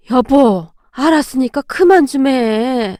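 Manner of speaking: slow, feeble plea from a sickbed; weak strained voice. Acted. 병상의 시어머니가 남편에게 힘겹게 하는 말, 약하고 지친 목소리. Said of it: "잘 나오지 않는 목소리로 힘겹게 말했어요".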